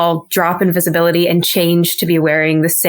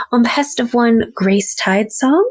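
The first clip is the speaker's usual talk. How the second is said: bright, higher, unhurried introduction; friendly stranger Jupiter; 5 semitones higher than usual. Pretend. Player's character greeting the stable boy, higher and friendly. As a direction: charm him gently into trusting you. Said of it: "scoot up a little bit closer".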